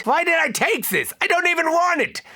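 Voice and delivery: high, fast frustrated cry; exasperated outburst. Acted. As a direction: whine it out in disbelief.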